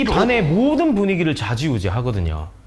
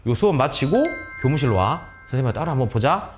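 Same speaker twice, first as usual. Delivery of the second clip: mild, lower-pitched kindly request; gentle and kind; 3 semitones lower than usual. Shown as a demonstration. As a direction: keep it low-key and kind, no anger. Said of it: "이렇게 최대한 다정다감하게".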